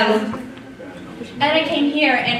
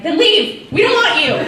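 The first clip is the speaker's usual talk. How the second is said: higher, louder laughing retort; mock shout; 5 semitones higher, 7 dB louder than usual. Student voicing her retort to unhappy newcomers, laughing mock shout. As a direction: fling it back with a laugh.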